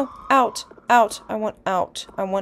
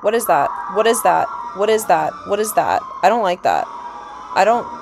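louder, panicked repeated questions; real alarm; 4 dB louder, faster than usual. Real, not acted. Player spooked by a creepy bag, loud alarmed panic. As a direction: blurt it out, spooked and rattled.

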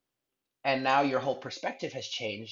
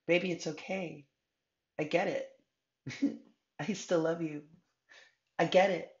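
tender, raised-pitch reassurance; forgiving and gentle, pitched higher; loving divine feminine; 5 semitones higher than usual. Acted. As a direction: soothe a loved one, with a small laugh. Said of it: "the divine feminine is saying that".

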